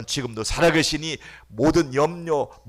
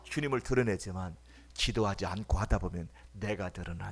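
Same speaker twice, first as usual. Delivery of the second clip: ordinary talk, nothing marked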